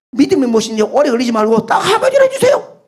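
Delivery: loud, pushy youth demanding an answer; young man insisting, half laughing; brash young man. Acted. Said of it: "청년도 당돌하죠".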